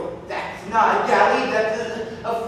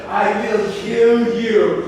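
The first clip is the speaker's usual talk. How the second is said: slow loud threat; 5 dB louder, much slower than usual. Acted. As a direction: drag out I will kill you, loud and heavy.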